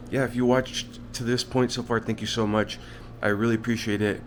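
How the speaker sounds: talking through retainers; slightly lisped with retainers in; wearing a retainer. Real, not acted. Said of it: "If I'm talking funny, it's 'cause I have my, uh, my retainers in".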